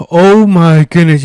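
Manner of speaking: breathless sigh after running; panting out of breath. Real, not acted. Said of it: "I am out of breath".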